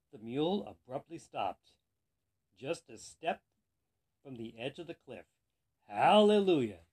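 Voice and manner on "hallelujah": loud, drawn-out storybook shout. A narrator's reading. Rider saved at the cliff edge, shouting. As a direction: belt it out in relief. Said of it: "the man shouted".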